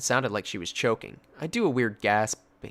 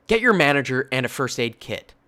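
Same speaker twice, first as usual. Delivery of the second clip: a louder, firm command; imitated furious command; furious order; 2 semitones higher, 5 dB louder than usual. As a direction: give the order with no room to argue. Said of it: "She sounded furious".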